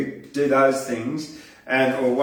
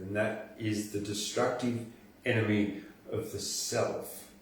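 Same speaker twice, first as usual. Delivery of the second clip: poem recital. Acted. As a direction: recite it earnestly like a slam poet. Recites poem Enemies of the Heart.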